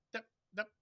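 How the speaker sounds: "Dup, dup" as two short, separated notes; two light, short "dup" sounds; short staccato demo. Shown as a demonstration. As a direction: cut each "dup" off quickly, leaving a gap. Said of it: "it's gonna sound short if you're like".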